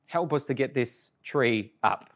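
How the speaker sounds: soft, earnest prayer at a bedside; hushed sincere prayer; quiet prayer. Retold or imitated. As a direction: pray gently beside the child. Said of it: "I say".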